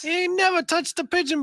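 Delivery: country handler voice. Acted. Joins the handler bit.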